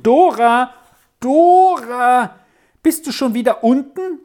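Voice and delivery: loud, high call across the house. Acted. Aunt calls Dora back from the garden, loud and high. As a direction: call her name twice, sharp and high.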